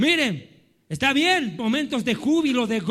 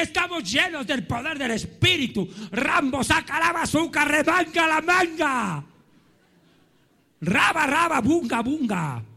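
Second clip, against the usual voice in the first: mock ecstatic shouting; 2 semitones higher than usual. Preacher mimicking noisy believers speaking in tongues, mock ecstatic. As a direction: parody frenzied believers, stretching the last syllables. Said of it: "Y gritan. Y ellos dicen".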